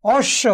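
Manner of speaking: অশ্ব said as osh-sho, with a double sh; doubled consonant. Shown as a demonstration. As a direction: hold the sh in অশ্ব, no b. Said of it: "দ্বিত্ব উচ্চারণ হচ্ছে।".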